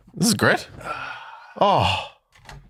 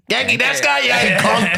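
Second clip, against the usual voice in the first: put-on Irish-accented Japanese; 12 semitones higher, 4 dB louder than usual. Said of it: "That's how I speak Japanese".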